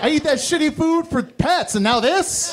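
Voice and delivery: high, indignant dog voice; offended dog. Retold or imitated. Dog ignored by owner, high indignant complaint. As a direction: complain like a snubbed pet. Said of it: "they're like".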